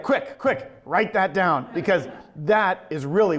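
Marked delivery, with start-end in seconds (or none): 0.0-1.7 higher, quick eager blurt; excited urgent call. Retold or imitated. Animation team urging someone to note the idea, excited call. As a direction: urge them to grab the idea fast.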